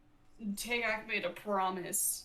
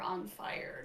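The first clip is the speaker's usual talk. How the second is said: whispering; 4 dB quieter than usual. Real, not acted. Repeating words in a whisper.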